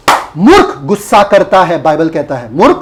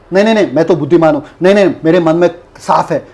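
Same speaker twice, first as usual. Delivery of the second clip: mock denial; 5 semitones lower, much faster than usual. Mocking a proud denier.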